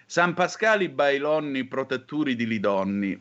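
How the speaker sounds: reciting in Calabrian dialect. Retold or imitated. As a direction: folk rhyme in dialect. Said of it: "le ragazze da marito il diciassette di maggio ripetevano".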